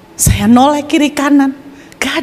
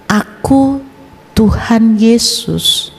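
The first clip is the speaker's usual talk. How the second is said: slow, measured divine voice; voice of Jesus; much slower than usual. Retold or imitated. Jesus reveals himself to the young man, slow and calm. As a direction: speak slowly, with calm authority. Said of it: "Suara itu berlanjut".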